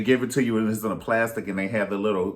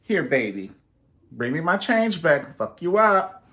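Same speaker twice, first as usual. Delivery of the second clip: mock tough grandma; 4 semitones higher than usual. Grandma warning grandchild about the change, mock stern. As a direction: threaten like a sassy grandma.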